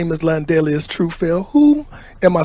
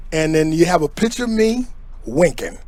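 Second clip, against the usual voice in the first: usual speaking voice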